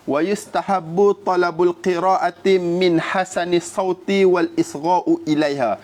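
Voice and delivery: measured, slow Arabic text reading; reciting Arabic text. Acted. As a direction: read out the classical Arabic quotation with care. Reads Arabic text of Imam Nawawi.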